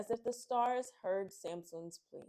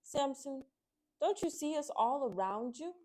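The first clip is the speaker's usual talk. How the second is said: calling out; 7 semitones higher, 4 dB louder than usual. Acted. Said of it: "a small fish swimming by called out".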